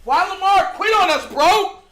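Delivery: mock the fans who'd blame Lamar; mocking complaining fan. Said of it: "You know what you would say?".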